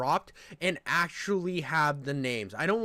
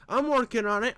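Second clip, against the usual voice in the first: trying Trump voice; 4 semitones higher than usual. Pretend. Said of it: "I wanna get my Trump down".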